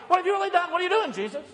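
demanding cry. Retold or imitated. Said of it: "when there's suffering".

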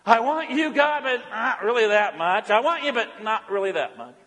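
lukewarm, shrugging voice; half-hearted devotion. Pretend. Preacher voicing the lukewarm church, half-hearted. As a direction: sound like you barely mean it. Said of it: "this is the church and people with God".

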